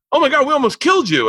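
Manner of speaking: high-pitched mock horror; retold alarmed exclamation; shocked realization. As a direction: imitate an aghast crowd, voice shooting up. Crowd's shock acted out.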